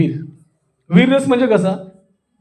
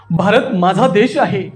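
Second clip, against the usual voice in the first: slower, leaning on "देश"; drawn-out stress. Shown as a demonstration. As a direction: stretch "देश" a little within the phrase. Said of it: "त्यांना असं लांबवतो".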